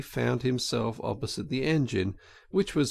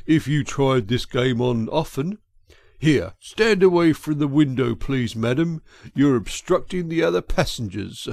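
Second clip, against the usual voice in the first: loud official moving a customer along; brusque ticket clerk; 2 semitones higher, 6 dB louder than usual. Acted. Clerk sends madam away from the window, brusque and loud. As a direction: order her away from the window, louder.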